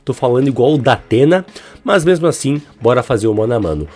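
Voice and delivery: blocked nose and sore throat from a cold; stuffy nose voice. Real, not acted. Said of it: "esse meu nariz entupido, minha garganta inflamada".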